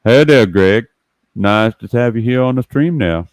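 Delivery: lightly voiced Cajun greeting; a touch of Cajun welcome; mild Cajun accent; Cajun impression. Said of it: "just like Toy Landry talking to you".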